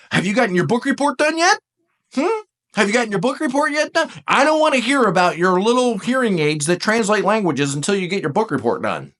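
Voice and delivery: high, quick parental nagging; mock scolding parent; shaming nag. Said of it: "you're shaming me because I don't need it".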